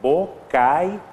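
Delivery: bo-cai-Ú-va with the stress on ú; sounding out a word. Shown as a demonstration. Teacher to students, sounding out "bocaiúva" slowly. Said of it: "porque, ó".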